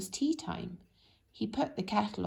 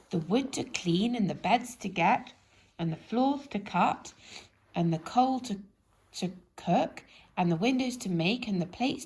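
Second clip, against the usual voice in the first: dazed muddle; 4 dB louder than usual. Acted. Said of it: "He got it all completely wrong. He was in such a daze".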